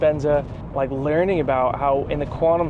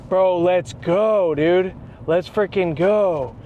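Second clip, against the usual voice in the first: drawn-out let's go, pumped; slow pumped-up celebration; slow hyped cheer; 3 semitones higher, much slower than usual. Retold or imitated. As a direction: cheer him on like a coach. Celebrating friend's progress.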